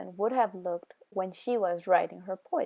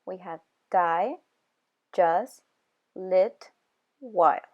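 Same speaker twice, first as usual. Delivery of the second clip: die, just, lit, while each hit hard and loud; stressed words punched; 4 dB louder, slower than usual. Shown as a demonstration. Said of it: "we have four stressed syllables".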